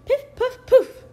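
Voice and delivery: high, loud sparkly spell; magic sound. A narrator's reading. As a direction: sing out the magic like a fairy.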